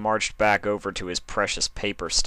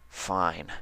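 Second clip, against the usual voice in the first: muttered; 7 dB quieter than usual. Acted. Dash agreeing to partner Applejack, muttering grudgingly. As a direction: grudgingly mumble it. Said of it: "she muttered".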